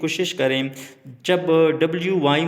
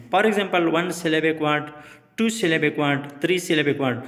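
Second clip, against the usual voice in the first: slow teaching read; slower than usual. Shown as a demonstration. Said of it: "teacher spelling out syllable types".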